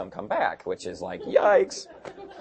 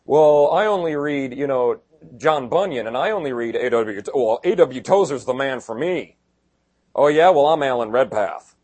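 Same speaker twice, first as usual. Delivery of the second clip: mock snobbish boast; 6 dB louder than usual. Mocking commentary snobs.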